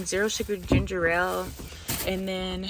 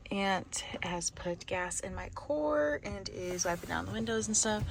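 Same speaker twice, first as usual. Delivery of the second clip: whisper; 5 dB quieter than usual. Real, not acted. Whispering in car beside aunt.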